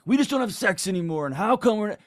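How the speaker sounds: an aggrieved partner blurting out a complaint; mock whiny complaint. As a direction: complain like a hurt spouse mid-argument. Acted complaint in wrong moment.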